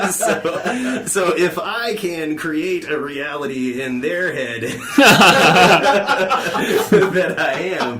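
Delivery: talking through laughter; laughing. Real, not acted. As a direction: laughs mid-sentence, high and loud. Laughing while boasting.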